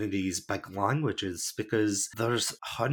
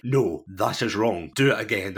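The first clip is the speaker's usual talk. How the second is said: blunt, nasty native; 5 dB louder than usual. Retold or imitated. Nasty native correcting a learner, blunt and loud. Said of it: "the nasty natives who are like".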